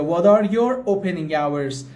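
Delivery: slow, even model question; slow alternative. Shown as a demonstration. Teacher giving the alternative phrasing slowly. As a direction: offer the other version slowly. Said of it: "یا".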